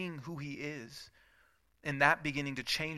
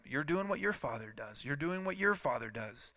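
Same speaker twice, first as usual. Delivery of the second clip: softer, pressing on your; repeated accusation; 5 dB quieter than usual. Acted. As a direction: quietly drive home your father. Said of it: "Keeps telling them".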